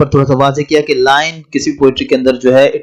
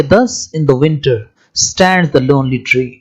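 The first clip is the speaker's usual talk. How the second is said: slow poem reading; much slower than usual. Shown as a demonstration. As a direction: read the line slowly, evenly. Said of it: "जिसमें लिखा है कि". (कविता की पंक्ति धीमे से पढ़ना)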